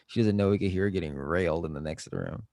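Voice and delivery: flat TikTok text-to-speech voice; robot voice. Retold or imitated. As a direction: read it like an app's computer narrator. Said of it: "the robot voice is like".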